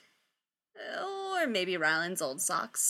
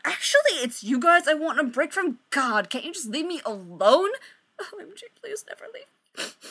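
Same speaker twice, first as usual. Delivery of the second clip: push-away act; 5 semitones higher, 3 dB louder than usual. Acted. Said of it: "she tries the whole".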